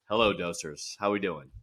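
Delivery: a hint of a porn star voice; deep sultry voice. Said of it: "Now you went so deep".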